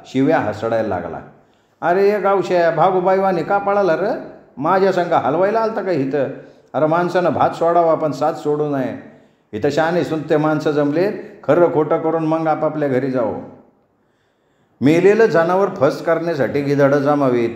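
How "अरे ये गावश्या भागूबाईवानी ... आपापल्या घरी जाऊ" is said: high-pitched shout after the fleeing man; calling out loud. Acted. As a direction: holler him back to the crowd. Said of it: "जबरदस्त आरोळी ठोकला".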